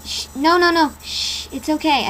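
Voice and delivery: calming shush. Acted. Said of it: "He tried to calm me down".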